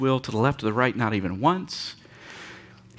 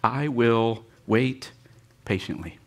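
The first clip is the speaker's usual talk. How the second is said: slow reading; slower than usual. Shown as a demonstration. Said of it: "it says this".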